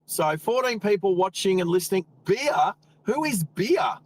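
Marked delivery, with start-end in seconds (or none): 2.2-4.0 puzzled, pitch jumping up; who on earth is that, curious; amused surprise at an odd name; surprised. Real, not acted. Reading an odd username aloud.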